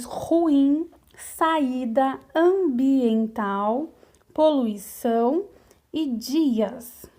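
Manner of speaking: slow word list, each hiatus in "ruim, saída, ambiental, poluição e dias" stretched into two syllables; hiatus vowels separated. Shown as a demonstration. Teacher showing pupils hiatus words, "ruim, saída, ambiental, poluição e dias" slowly drawn out. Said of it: "na hora de separar elas ficam em sílabas diferentes".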